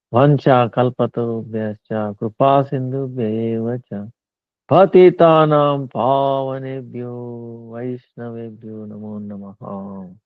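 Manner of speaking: measured, devotional recitation of a Sanskrit prayer. Acted. Teacher closing the talk by reciting a prayer, reverent.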